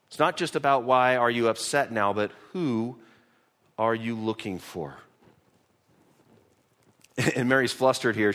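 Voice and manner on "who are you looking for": quiet and personal; tender. Shown as a demonstration. Preacher echoes Jesus' question to Mary, soft and personal. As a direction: soften into an intimate question. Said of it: "a very personal transition".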